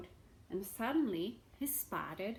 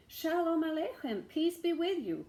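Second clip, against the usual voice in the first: higher, louder greeting; calling greeting; 8 semitones higher, 5 dB louder than usual. Acted. Beggar greeting the caretaker, calling out. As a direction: call out a greeting. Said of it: "called the beggar".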